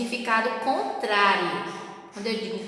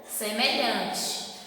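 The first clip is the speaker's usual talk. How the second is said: slow, spaced-out recitation of the pairs; slow memory drill; much slower than usual. Shown as a demonstration. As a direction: drill it slowly for the class to remember. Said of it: "é só lembrar". (ditado lento para memorizar)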